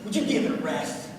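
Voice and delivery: low, soft weary groan; acted low-energy morning complaint; grumpy morning reply. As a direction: imitate a tired coworker grumbling. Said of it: "And you're like".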